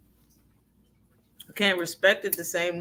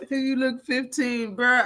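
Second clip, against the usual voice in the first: laughing retelling; 4 semitones higher than usual. Retold or imitated. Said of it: "Bill was like".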